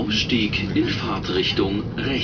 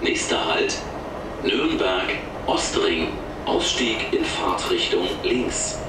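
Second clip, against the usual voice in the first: over the intercom. Real, not acted. Recorded train stop announcements.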